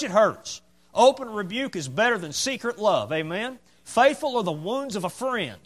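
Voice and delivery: driving pulpit delivery, pitch lifted on key phrases; fervent preaching. Real, not acted. Preacher telling church he wants honest friends, fervent preaching. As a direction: press each point home with rising fervour.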